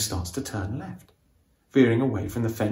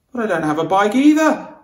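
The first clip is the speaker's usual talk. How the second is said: high, louder panicked protest; frightened yelp, pitched up; panicked cry; 9 semitones higher, 7 dB louder than usual. A narrator's reading. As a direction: blurt it out in alarm as the horse bolts. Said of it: "I cry".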